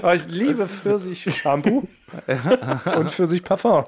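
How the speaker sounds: slow, laughing mock confession; joking, laughing aside. Real, not acted. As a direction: giggle through a silly claim.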